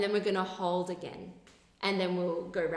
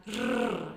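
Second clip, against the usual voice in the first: lip trill. Shown as a demonstration. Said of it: "this time".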